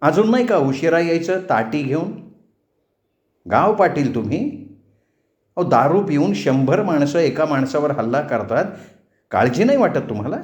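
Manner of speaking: lightly voiced indignant heroine, lilting questions; confronting, with lifted questioning tune; indignant young woman. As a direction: take the village chief to task. Narrator plays Hema confronting the patil.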